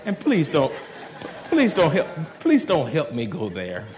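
laughing warning; said with a smile. Retold or imitated. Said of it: "You say with a smile".

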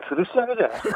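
said through a laugh; joking protest while laughing. Real, not acted. Caller jokes about being grilled.

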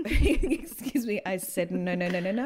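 laughing mock refusal. Joking with a co-host, laughing refusal.

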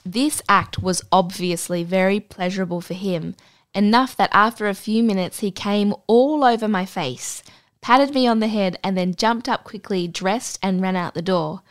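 measured read-aloud storytelling voice; story narration. Acted. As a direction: read the anecdote aloud, composed. Reads out an anecdote.

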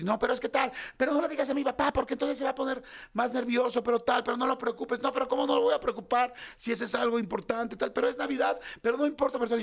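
discusión atropellada en tono más agudo; griterío familiar imitado. Retold or imitated. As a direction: imita a una familia discutiendo a gritos, sin gritar de verdad. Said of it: "empiezo a oír gritos". (alboroto de voces alteradas)

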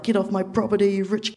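high-pitched, heated retort; retold yell back. Yelling back at the neighbour trespassing, high retold yell.

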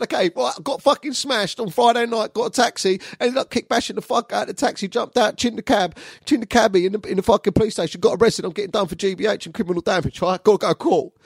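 high-pitched breathless rant; frantic confession. Retold or imitated. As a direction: let it all pour out in one agitated rush. Acted outpouring to the therapist.

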